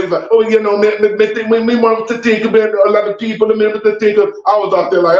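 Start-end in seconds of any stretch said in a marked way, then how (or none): 0.3-4.3 Shaggy. Retold or imitated. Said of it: "and then he thought, thought about it".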